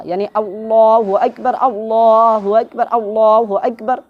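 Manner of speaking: chanted teaching takbir; slow takbir. Shown as a demonstration. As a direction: recite اللہ اکبر slowly for the class. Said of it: "یہ جو بولتے ہیں نا اللہ اکبر".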